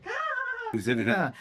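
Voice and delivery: sharp high gasp of surprise; startled gasp. Retold or imitated. Mother gasps at her son in the kitchen, startled high gasp. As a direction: let out a sudden high gasp.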